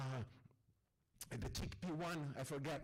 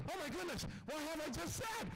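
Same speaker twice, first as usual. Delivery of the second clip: mock dismay; 9 semitones higher than usual. Teller's embarrassment.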